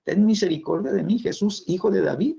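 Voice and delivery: retold cry for mercy; imitated crying out. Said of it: "empieza a gritarle".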